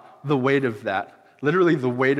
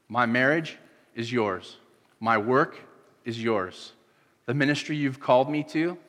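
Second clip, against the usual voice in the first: earnest prayer. Acted. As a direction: pray it sincerely, surrendering. Voices a prayer of surrender.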